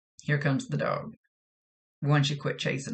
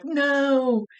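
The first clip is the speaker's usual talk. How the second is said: loud, high alarmed refusal; frightened no; 10 semitones higher, 6 dB louder, much slower than usual. Retold or imitated. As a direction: stop them in a rush of fear. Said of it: "She's like".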